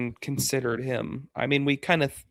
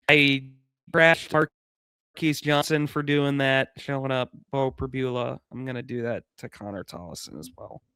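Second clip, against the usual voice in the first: robot voice. Pretend. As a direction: speak like a machine, evenly. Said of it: "Doing a robot voice".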